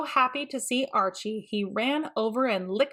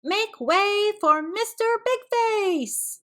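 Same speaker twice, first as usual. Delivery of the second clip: very high, slow, grand ringmaster voice; showman announcer; 12 semitones higher, 3 dB louder, slower than usual. Acted. Peter introduces Mister Big Face, a grand announcer. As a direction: present it like a circus barker.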